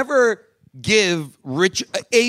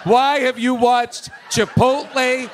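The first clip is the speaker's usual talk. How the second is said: shouting through a laugh; laughing disbelief; 3 semitones higher, slower than usual. Real, not acted. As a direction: laugh out the question, stunned. Incredulous laughing question.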